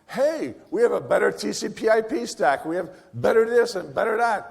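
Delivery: imitating people a little put out; mock incensed. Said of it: "were really incensed about this".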